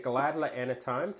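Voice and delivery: put-on Scottish accent, drawn out. Reading a chat message aloud, Scottish accent. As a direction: read it slowly in a light Scottish accent. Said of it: "now has a Scottish accent".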